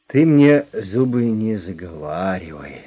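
slow, sweetly menacing advice; falsely kind warning from a gangster; mock-gentle menace. A narrator's reading. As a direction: silk over a threat. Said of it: "ласково посоветовал директор".

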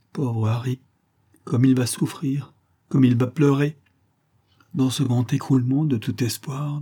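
lightly voiced grieving mother consoling; gentle lament, a touch of sorrow; compassionate motherly figure. Mother pities her daughter and Harry, compassionate lament.

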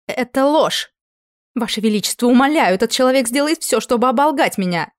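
high, loud desperate plea; pleading queen. A narrator's reading. Queen Maria begs the king, high desperate plea.

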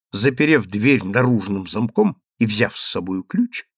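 ordinary delivery, nothing marked

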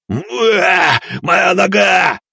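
high, loud wail; howling in pain. Acted. Leader wails over his leg, loud and high. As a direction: cry out for the leg.

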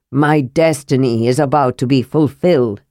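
put-on a stubborn old man at the end of his quest; awed Armin. Armin kneels in awe.

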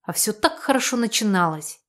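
ordinary delivery

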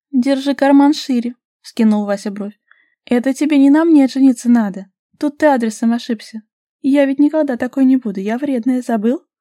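high, loud, cheeky refusal; sassy. A narrator's reading. Vasilisa sassily refuses to become a docile wife. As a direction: tease him defiantly.

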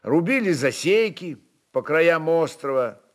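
ordinary delivery, nothing marked

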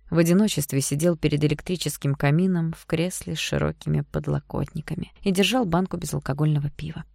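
ordinary talk

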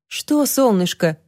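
put-on slow, gentle question to a child. Toni asks the small boy gently, slow and soft. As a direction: soften toward the little boy. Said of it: "уже мягче спросила она".

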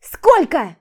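high, loud scream; shriek. Acted. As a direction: scream the question. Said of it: "крикнула я". (высокий громкий крик)

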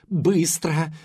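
choked, hoarse urgent command; strangled rasp. A narrator's reading. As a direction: rasp it through a tight throat. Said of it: "сдавленно прохрипела Келли".

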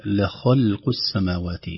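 slow recitation, thin and heavy letters alternating; careful Quran recitation; tajweed recitation. Shown as a demonstration. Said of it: "لاحظوا أحبتي أن الحروف هنا".

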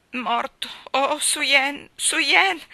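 high, loud anguished cry; breaking into a sob. Acted. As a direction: voice collapsing into tears. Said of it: "La sua voce si spense in un singhiozzo".

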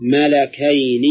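mala-KAYN, the lam of "ملكين" voweled with fatha; open "a" after the lam. Shown as a demonstration. Teacher showing the Quranic word, "ملكين" read malakayn. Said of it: "بفتح اللام".

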